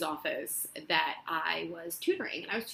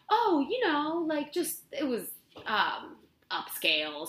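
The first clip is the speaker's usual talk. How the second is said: high, eager job-applicant bluff; faking confidence; 8 semitones higher than usual. Retold or imitated. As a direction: sell the bluff with a bright high lilt. Faking expertise in a job interview.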